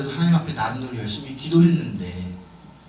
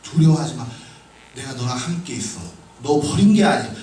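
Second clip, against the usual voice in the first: gentle reassurance; 2 semitones lower than usual. Retold or imitated. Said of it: "하나님이 나에게 주신 확신은".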